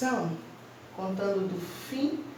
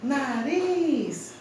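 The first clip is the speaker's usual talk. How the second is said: "nariz" with the last syllable stretched and raised; teacher's drawn-out demo of "nariz", weight on RIZ; stress on the RIZ of nariz; 4 semitones higher than usual. Shown as a demonstration. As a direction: hold the RIZ in "nariz" long. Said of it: "qual a sílaba mais forte".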